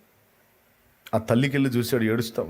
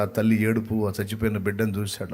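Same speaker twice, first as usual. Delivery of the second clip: usual speaking voice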